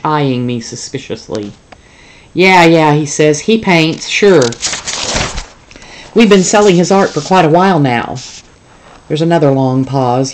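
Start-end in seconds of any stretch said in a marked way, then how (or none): 2.3-2.9 higher, louder brash boss voice; brash and eager down the line; zoo boss on the phone. Acted. Zoo boss chatting with the reporter, high and loud. 3.4-8.1 higher, louder brash boss voice; brash and eager down the line; zoo boss on the phone. Acted. Zoo boss chatting with the reporter, high and loud.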